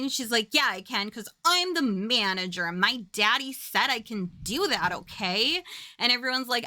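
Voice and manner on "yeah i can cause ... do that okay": mock entitled manager's daughter; bratty retort. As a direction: imitate a daddy's girl pulling rank. Boss's daughter pulls rank, retold.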